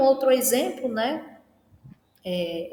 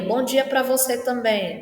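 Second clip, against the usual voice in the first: sarcastic good morning, a little louder; ironic; 3 dB louder than usual. Shown as a demonstration. Greeting a colleague who ignored her, with sarcasm. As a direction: drip mock politeness onto the greeting. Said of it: "Não é com ironia".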